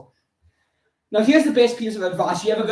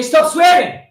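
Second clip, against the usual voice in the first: high, loud mock telling-off; raised-voice mimicked reprimand; scolding objectors; 8 semitones higher, 8 dB louder, slower than usual. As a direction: imitate an outraged scold. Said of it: "they say".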